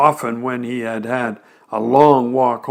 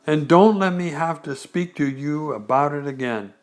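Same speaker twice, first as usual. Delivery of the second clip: severe mother. Acted. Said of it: "rather severely".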